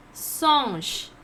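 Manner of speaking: "Singe" said as "sonsh", long and falling; pronunciation demo. Shown as a demonstration. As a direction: model French "Singe" with a nasal vowel and closing sh. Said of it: "How to pronounce?".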